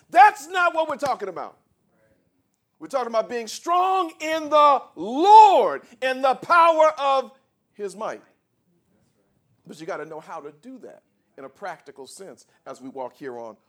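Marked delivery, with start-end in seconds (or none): 0.1-8.2 loud, high pulpit shout; impassioned, booming proclamation; full-force preaching. Real, not acted. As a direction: cry it out to the congregation, drawing out the key words.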